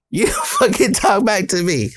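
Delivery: high, agitated telling-off; retold angry scolding. Parent confronts the kids about the ambulance, high-pitched scolding. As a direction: scold fast-rising and high, acting out an upset parent.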